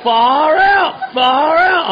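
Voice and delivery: high, loud, gleeful far out; loud, happy, high far out; delighted. Retold or imitated. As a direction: crow it with delight. Delighted exclamation.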